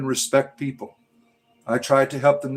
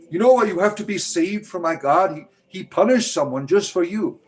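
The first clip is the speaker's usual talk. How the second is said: higher-pitched mock preaching; mocking believer; 5 semitones higher than usual. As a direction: parody a pushy believer, pitched up.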